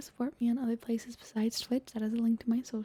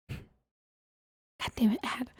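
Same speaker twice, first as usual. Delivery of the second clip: very slow exasperated groan; drawn-out groan; much slower than usual. Acted. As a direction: stretch it out in frustration.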